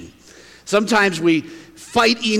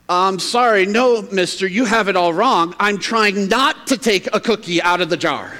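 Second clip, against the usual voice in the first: mildly stern boy, lightly acted; kinda stern. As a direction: correct the store owner with a touch of firmness. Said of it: "kinda stern".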